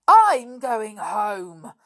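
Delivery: loud, drawn-out furious declaration; angry. A narrator's reading. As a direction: announce it hotly, stretching the words. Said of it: "her face scarlet with anger".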